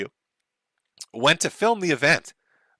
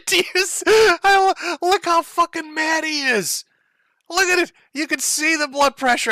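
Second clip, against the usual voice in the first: laughing while talking; 13 semitones higher than usual. Real, not acted. Laughing while mocking Ralph's anger.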